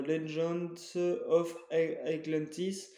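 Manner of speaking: a mild, half-hearted English accent on the title; English accent attempt. Shown as a demonstration. Collector naming his DS game, in a mild English accent. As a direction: try an English accent on Legends of Atlantis, not quite landing. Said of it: "j'essaie de faire mon accent anglais".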